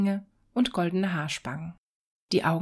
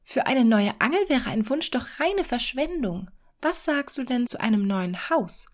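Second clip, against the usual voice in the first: higher, eager wife pushing her idea; persuading wife; 5 semitones higher than usual. Acted. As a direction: talk him round to a new house. Wife arguing for bigger wishes. (drängende Ehefrau)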